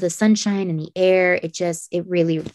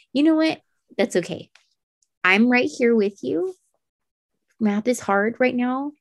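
higher-pitched, slowing soothing parent voice; gentle reassurance; 6 semitones higher than usual. Retold or imitated. Mother to her son struggling with math, gentle reassurance. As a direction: reassure a child, high and unhurried.

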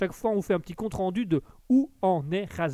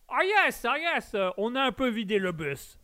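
high-pitched audience member agreeing; voce del pubblico; 7 semitones higher than usual. Acted. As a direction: chime in high from the crowd. Plays the audience answering him.

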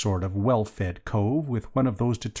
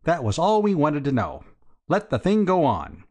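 higher, cheerfully satisfied businessman; hearty; 6 semitones higher, 3 dB louder than usual. A narrator's reading. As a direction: wave it all on heartily. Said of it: "said the chappie heartily".

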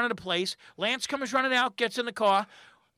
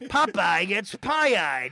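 Popeye; 3 semitones lower, much slower than usual. Retold or imitated. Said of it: "And he's doing Popeye".

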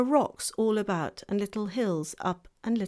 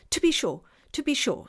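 fawn voice; 6 semitones higher, 5 dB louder than usual. Acted. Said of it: "said the fawn".

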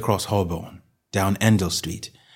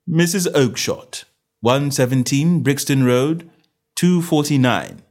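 measured, raised-pitch ledger reading; detective reading from a book; reading aloud; 6 semitones higher, 5 dB louder than usual. A narrator's reading. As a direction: read out an entry item by item. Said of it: "read Holmes".

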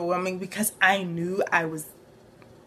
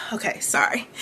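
tearful. Real, not acted. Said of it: "I did not know I was gonna get emotional".

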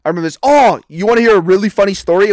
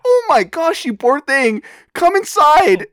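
put-on higher sweet old-lady voice; 8 semitones higher, slower than usual. Kindly old lady welcoming a tired kid inside, higher and sweet. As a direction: coo it like a kindly grandma. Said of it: "this nice old lady says".

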